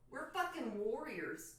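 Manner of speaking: a slow, mock Yankee accent on warriors. Joking to viewers, warriors in a slow mock Yankee accent. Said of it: "I sounded like a Yankee when I said warriors".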